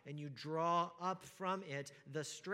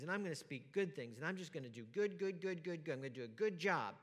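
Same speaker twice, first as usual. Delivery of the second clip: louder, hammed-up bootstrap resolve; mock self-pep talk; 2 semitones higher, 4 dB louder than usual. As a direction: play the eager do-gooder, speeding up at the end. Mocking self-reliant resolve quoted.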